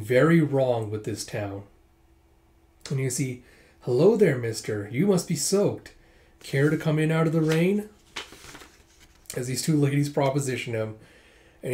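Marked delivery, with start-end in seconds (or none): 3.8-7.9 lightly acted hostess, higher on greetings; lilting mock invitation to a customer; inviting hostess. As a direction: beckon a passing traveler in. Shop women proposition a passing traveler.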